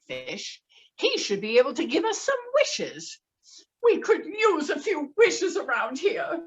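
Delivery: angry wife. Acted. Wife scolding the fisherman, loud angry.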